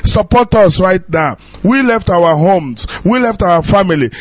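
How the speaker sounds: choked-up appeal on the radio; pleading in tears. Real, not acted. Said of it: "I am crying".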